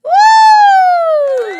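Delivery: high falsetto laugh into a loud whoop; mock cheer. Host mocks people clapping for Fuentes, loud whoop. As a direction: whoop like a cheering crowd, mocking.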